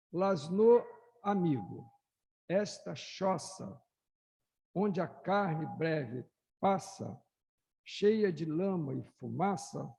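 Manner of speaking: poem recital. Acted. Speaker reads the short letter-poem to the audience, lightly declaimed. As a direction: lay out the verses with weight.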